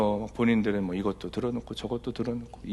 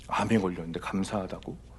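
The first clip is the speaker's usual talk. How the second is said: quieter, lower, rising doubtful echo; puzzled disbelief; 3 semitones lower, 6 dB quieter than usual. Retold or imitated. Pastor echoes a claim he found strange, puzzled. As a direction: echo it back, baffled. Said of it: "갸우뚱했어요".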